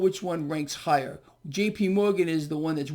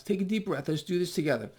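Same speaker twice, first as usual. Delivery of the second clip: calming breath guide; 2 semitones lower, faster than usual. Shown as a demonstration. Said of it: "Help me relax a minute".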